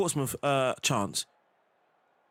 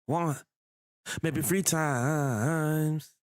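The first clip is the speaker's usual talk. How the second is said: drawn-out imitation of the game's voice line, much slower; slow imitated voice line; much slower than usual. Gamer to himself, imitating a voice line, very slow. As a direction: stretch each word like a recorded clip.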